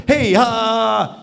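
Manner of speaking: high, loud mock holler to stop someone; mock calling out. Coach mimics stopping people already walking past, mock calling out. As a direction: holler "hey" as if flagging someone down. Acting out stopping passers-by too late.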